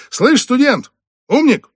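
very high, loud jeering call; mocking shout. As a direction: jeer at him as he leaves. Boss calls after leaving waiter.

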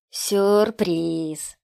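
spring the surprise with relish; gleeful villain. A narrator's reading. Killer through speakers revealing the captive, gloating cry. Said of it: "Из динамиков полился смех".

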